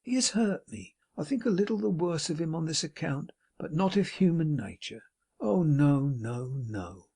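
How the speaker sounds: unctuous, sanctimonious self-pity; smug hypocrite holding forth; Pecksniff. Acted. Pecksniff's long speech.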